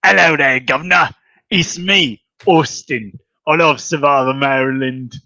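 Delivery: mock English accent. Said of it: "an English accent".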